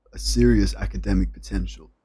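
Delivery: second go at a posh American accent, serious stressed; American accent retry. Shown as a demonstration. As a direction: repeat the line in an American accent, pushing serious. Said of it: "how to say this in an American accent".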